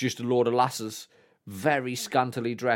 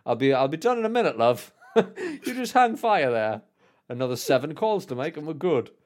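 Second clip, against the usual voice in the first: laughing through a cheeky brush-off, higher; laughing mock reassurance; 4 semitones higher, 4 dB louder than usual. Kid stalling the waiting queue, laughing. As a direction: giggle while stalling them.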